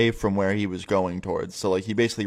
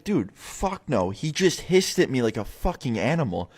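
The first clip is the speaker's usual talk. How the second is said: emphatic refusal; 3 semitones higher than usual. Retold or imitated. Narrator to friend who says go knock, emphatic refusal. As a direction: re-enact refusing a friend's crazy request.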